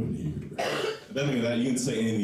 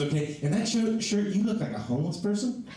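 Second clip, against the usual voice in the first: mock girlfriend voice; 10 semitones higher than usual. Girlfriend judging his shirt, high mock voice. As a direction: raise the pitch and draw out the verdict. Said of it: "She goes".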